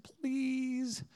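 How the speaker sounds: breathy whispered please. Retold or imitated. Husband begging his wife, whispered. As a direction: beg softly under the breath. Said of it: "I said".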